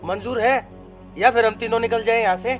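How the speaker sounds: firm ultimatum. Acted. Father lays down ultimatum.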